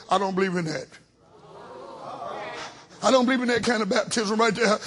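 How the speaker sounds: low, soft sneering Cain; mocking Cain. Preacher voicing scornful Cain. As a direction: scoff like a stubborn doubter.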